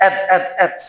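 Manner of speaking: "at, at, at" with the r left off; wrong, r dropped. Shown as a demonstration. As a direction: drop the r from rat and say "at". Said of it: "না আমি রটা বলবো না". (র বাদ দিয়ে ভুলভাবে "at")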